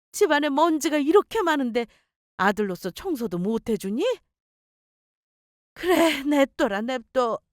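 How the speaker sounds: put-on nagging, reproachful older mother; lightly voiced mother laying on the guilt; scolding mother-in-law. Mother-in-law berates her son over chores, reproachful scolding.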